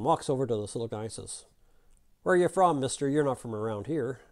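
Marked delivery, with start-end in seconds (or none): 2.2-4.2 hailing a stranger in a Texan drawl; Texan cowboy sizing up a newcomer. Acted. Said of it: "that Texan drawl, right?".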